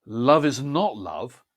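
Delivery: slow, builds to "not" then falls away; "Love is not love" rising to "not", dropping off at the end. Shown as a demonstration. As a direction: climb onto "not", then let it drop. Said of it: "builds to "not" and then drops off at the end".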